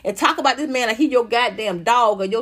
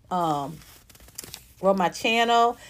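ordinary talk

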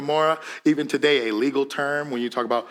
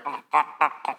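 throaty choked ah sounds; strangled voice. Shown as a demonstration. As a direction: push the ahs from the throat like choking. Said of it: "Sounds like you're getting choked".

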